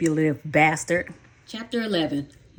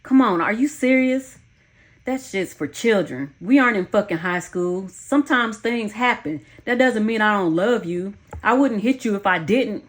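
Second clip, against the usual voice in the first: pitched up scornful protest; dismissive teeth-sucking scoff; 4 semitones higher than usual. Acted. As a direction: brush her off as childish. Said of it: "He sucked his teeth".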